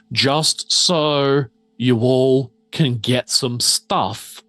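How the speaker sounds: slow, deliberate, portentous announcement; game master's scene setting. Acted. Game master sending the doctor toward the shiny door, scene-setting voice. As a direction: draw out the key words with mock grandeur.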